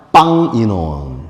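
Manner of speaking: "빵 이논" said very slowly and loudly; drawn-out teaching of "빵 이논", each syllable separate; sounding out words. Shown as a demonstration. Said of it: "그냥 한번 따라해보세요". (아주 천천히 또박또박)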